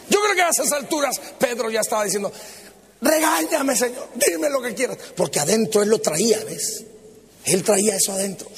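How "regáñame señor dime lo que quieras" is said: higher, impatient mock plea; pleading. Peter inwardly begs to be scolded, pleading. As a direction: beg to be scolded.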